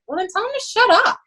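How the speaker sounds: mock snappy retort. Coach retorting to captains.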